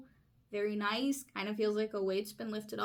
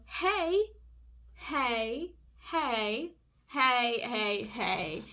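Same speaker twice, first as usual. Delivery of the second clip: mock calling out; 4 dB louder, much slower than usual. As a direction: imitate someone hollering to get your attention. Calling out to get attention.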